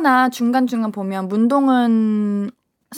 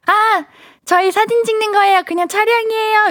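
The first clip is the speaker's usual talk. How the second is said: much higher, quick apologetic voice; high nervous explanation; 11 semitones higher than usual. Retold or imitated. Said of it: "이랬어요".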